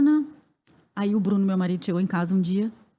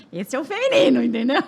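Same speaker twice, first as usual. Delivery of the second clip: louder, higher, through real laughter; amused self-mocking exclamation; laughing aside; 4 semitones higher, 4 dB louder than usual. Real, not acted. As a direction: laugh out the punchline. Laughs at her own panic.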